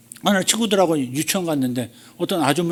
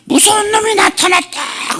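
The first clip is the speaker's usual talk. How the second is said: high, slow, eerie possessed voice; slow, high cry of a possessed woman writhing on the ground; possessed woman's cry; 3 dB louder, slower than usual. Retold or imitated. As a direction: shriek it out like a woman seized by a demon. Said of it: "하면서 땅바닥에 쓰러져가지고 그냥 몸부림을".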